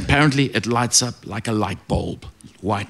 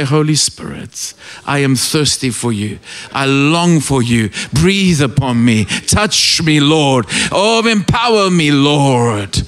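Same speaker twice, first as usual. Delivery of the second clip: prayer; slower than usual. Shown as a demonstration. Preacher modelling a prayer for the church, earnest longing. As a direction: pray it with longing. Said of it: "Just say".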